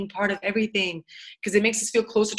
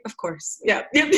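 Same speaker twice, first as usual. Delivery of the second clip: mock-polite agreement. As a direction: humour them with an underplayed yes. Weary reply to eager French speakers.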